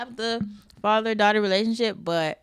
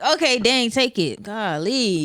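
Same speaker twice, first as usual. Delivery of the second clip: reluctant, louder huff of giving in; grudging surrender; 4 semitones higher, 5 dB louder, slower than usual. Retold or imitated. To God, giving something up, a grudging louder huff. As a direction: sigh it out like you're forced to hand it over. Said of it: "But I'll be like".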